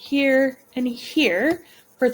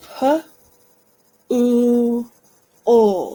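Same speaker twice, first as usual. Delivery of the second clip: pool stretched out, sounded as three parts; 3 dB louder than usual. Teaching students to stretch the word pool into its sounds: stretching the word out. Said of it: "We're going to stretch out the word pool".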